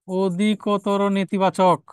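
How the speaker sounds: very slow, drawn out word by word; slow dictation. Real, not acted. Teacher repeats the answer for students, very slowly. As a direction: stretch out অধিকতর নেতিবাচক as if for note-taking.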